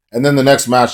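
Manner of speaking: chewing while talking; mouth full. Real, not acted. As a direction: talk through a mouthful of food. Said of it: "sorry, I'm chewing on something".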